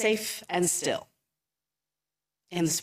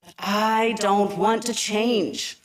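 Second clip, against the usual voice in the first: lamenting; 3 semitones higher, slower than usual. Acted. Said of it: "lamented Homer, scared and sad".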